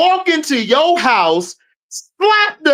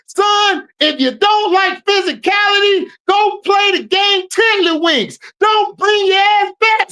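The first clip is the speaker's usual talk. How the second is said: put-on tough old coach; 5 semitones higher than usual. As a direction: coach yelling at his son to toughen up. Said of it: "I'ma do like my coach said".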